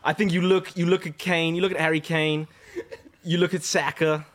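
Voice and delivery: light imitation of a friend's North American-style accent; half-teasing American accent impression; imitated American-like accent. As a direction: have a go at an American-sounding accent. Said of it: "I'll do it in your, like, you're not American".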